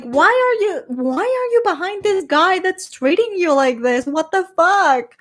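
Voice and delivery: baffled, exasperated outburst. Acted. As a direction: demand answers from the foolish heroine. Exasperated rant at a fictional heroine.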